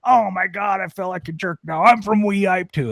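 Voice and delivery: put-on high, sheepish old-man exclamation; embarrassed old man. Old man learning they share a hometown, high embarrassed voice. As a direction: blurt it out, ashamed and amazed. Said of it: "he's like".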